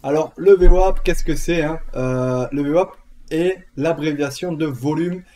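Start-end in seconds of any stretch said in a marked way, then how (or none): 4.7-5.2 English with southern French accent. Real, not acted. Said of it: "j'ai accent du sud en plus".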